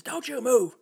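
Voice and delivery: high, loud accusing shout; yelling cop. Retold or imitated. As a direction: yell it like a frantic cop. Officer yelling, gun drawn.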